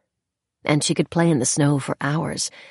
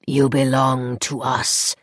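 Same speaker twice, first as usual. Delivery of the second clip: slow rasping fairy voice; slower than usual. Acted. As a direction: rasp it out possessively. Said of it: "rasped the other".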